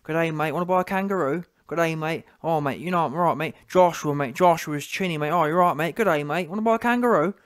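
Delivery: lightly hammed-up New Zealand fan; a hint of caricatured New Zealand accent; mock New Zealand accent. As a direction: tease with a mock Kiwi accent. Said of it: "I'm sure there's some New Zealand".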